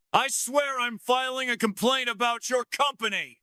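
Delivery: high, loud woman's outburst; female character voice. A narrator's reading. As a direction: protest shrilly at the staff. Jessica yelling at security.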